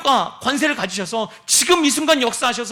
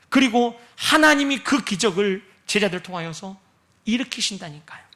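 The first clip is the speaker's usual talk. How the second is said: usual speaking voice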